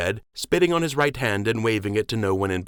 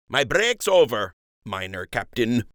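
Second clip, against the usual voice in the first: teasing docker; 3 semitones higher than usual. Acted. Jimmy teasing Fleck.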